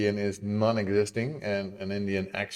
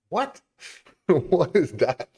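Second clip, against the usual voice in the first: surprised; 8 semitones higher, 5 dB louder, slower than usual. Real, not acted. Surprised at chat request.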